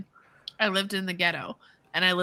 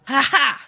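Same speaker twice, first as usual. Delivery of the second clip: triumphant laugh; 6 semitones higher, 5 dB louder than usual. Real, not acted. Celebrates fixing the tech.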